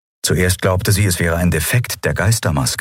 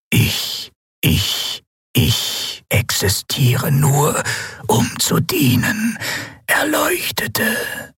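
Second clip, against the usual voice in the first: higher, slow, stuttering machine voice that keeps glitching; failing machine voice; much slower than usual. Acted. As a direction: stammer like a broken machine. (stotternde, defekte Maschinenstimme)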